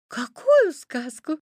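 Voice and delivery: put-on high, slow, girlish astonishment; surprised. A narrator's reading. Red Riding Hood puzzled by the fairy tale, high surprised question. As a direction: ask with drawn-out wonder. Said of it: "удивилась Красная Шапочка".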